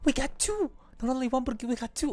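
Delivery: high, loud shriek easing into rapid delight; excited disbelief. Real, not acted. Gamer finding two rare pulls at once, excited disbelief. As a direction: squeal at an unexpected double. Discovers a double lucky pull.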